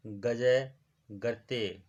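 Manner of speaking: गजय गर्ते drawn out slowly, each syllable clear; slow dictation. Shown as a demonstration. Teacher repeats phrase slowly for students to copy. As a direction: spell out गजय गर्ते slowly so they can write it. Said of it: "teacher repeats phrase slower".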